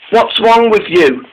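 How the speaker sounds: high and drawn out; a hint of a worried friend, slowed down; slow worried question. Dennis pleading at tunnel.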